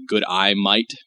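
"Good eye, mate" with day said like eye; Australian accent exaggerated the American way. Shown as a demonstration. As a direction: overdo the Aussie vowel so day turns into eye. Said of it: "apparently what we do is kind of say".

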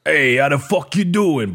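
a wimpy underling trying to sound tough; dweeby mob guy. Shown as a demonstration. Trying out a dweeb version of a Jersey mobster. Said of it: "A dweeb version of that guy".

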